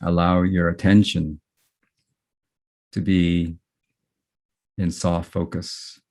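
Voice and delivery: unhurried meditation guiding with long pauses between phrases; guided meditation. Real, not acted. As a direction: guide gently, letting each phrase settle before the next.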